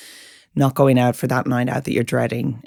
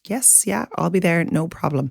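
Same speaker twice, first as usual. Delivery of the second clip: yes person; 3 semitones higher, 4 dB quieter than usual. Acted. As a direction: agree softly, as if obliging everyone. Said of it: "A yes person".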